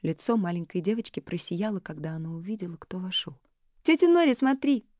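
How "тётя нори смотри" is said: высоким громким детским голосом; радостно зовя тётю; детский возглас. A narrator's reading. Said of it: "воскликнула она". (девочка восторженно зовёт тётю Нори)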